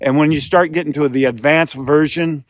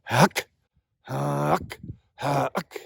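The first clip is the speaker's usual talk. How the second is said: goose call huck; 5 dB quieter, much slower than usual. Shown as a demonstration. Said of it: "Push it up to huck".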